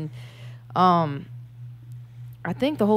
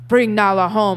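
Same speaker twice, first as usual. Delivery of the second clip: louder, stern retold command; pissed-off Mufasa; 5 dB louder, slower than usual. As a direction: imitate an angry father's order. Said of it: "Like, he's pissed".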